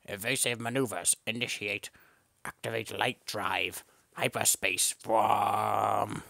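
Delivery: mock sci-fi pilot commands; lightly voiced spaceship ostrich. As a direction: bark it like a starship captain. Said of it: "It's like".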